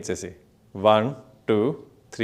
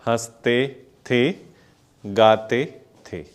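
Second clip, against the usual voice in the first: slow lyric recital; much slower than usual. Shown as a demonstration. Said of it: "फिर क्या था?".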